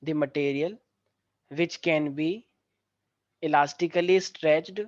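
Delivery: each phrase spoken very slowly for students to copy; slow, clear classroom dictation. Shown as a demonstration. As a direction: dictate word by word with long pauses. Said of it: "लिखो सारे बच्चे".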